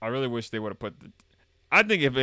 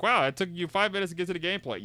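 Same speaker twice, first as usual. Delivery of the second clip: mock viewer; 7 semitones higher, faster than usual.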